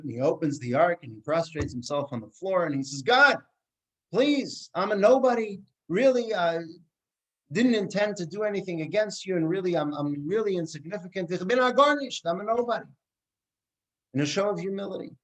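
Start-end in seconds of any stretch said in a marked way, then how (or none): 3.0-12.9 cantor's plea. Retold or imitated. Cantor imitates rabbi's plea.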